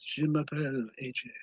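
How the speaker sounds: quiet, sweet French accent; soft French. Shown as a demonstration. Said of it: "But with French, Sweet sounding".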